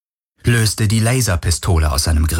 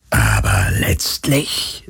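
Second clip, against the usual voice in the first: much lower, slow unvoiced whisper; carefree phantom whisper; 10 semitones lower, much slower than usual. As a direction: toss it off lightly like a calm ghost. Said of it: "sagte das Phantom unbekümmert".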